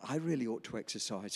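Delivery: quoting the nurse low and soft, almost to himself; muted quote. Retold or imitated. Pastor quoting the nurse's admission, low and soft. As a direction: say it quietly, as a flat first report. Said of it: "This is what she said".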